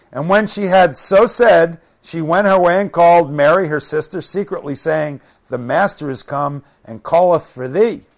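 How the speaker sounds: emphatic King James narration; scripture reading. Acted. Preacher reads Mary coming to Jesus, emphatic scripture reading. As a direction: read the passage out firmly.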